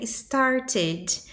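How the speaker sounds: slow "started" with a sounded "-ed" ending; "started" drawn out, the final E clearly voiced; ED pronounced as syllable. Shown as a demonstration. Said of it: "tem um T".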